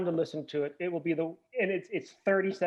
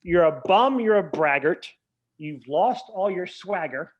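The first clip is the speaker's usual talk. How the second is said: reciting lyrics; 4 dB louder than usual. Retold or imitated. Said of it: "He changed it to".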